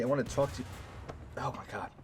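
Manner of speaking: "talk" with a broad New York "aw"; New York accent slipping into "talk". Real, not acted. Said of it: "my New York accent is, like, in full effect now".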